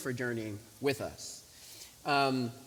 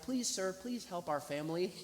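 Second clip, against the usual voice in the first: high-pitched mock tearful plea; almost crying; 5 semitones higher than usual. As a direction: mimic a son begging for his family. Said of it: "almost crying".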